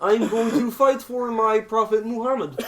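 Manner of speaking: put-on puppet frog voice; Kermit the Frog. Podcaster as zealot puppet making a vow, frog impression. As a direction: declare it as an earnest cartoon frog. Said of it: "Kermit the Frog".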